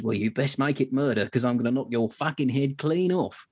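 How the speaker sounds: mock threat delivered with conviction; Harry's angry threat. Soldier answering the sergeant major's charge, mildly acted angry threat. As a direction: retell the threat with relish, mildly heated. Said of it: "It's with such conviction".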